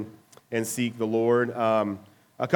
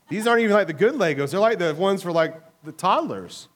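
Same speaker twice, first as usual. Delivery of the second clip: mock scoffing; 3 semitones higher than usual. Mocking his own Lego props.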